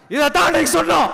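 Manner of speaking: first take shouted out; emphatic shout. Real, not acted. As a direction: hammer the point home. Repeats slogan, first take shouted.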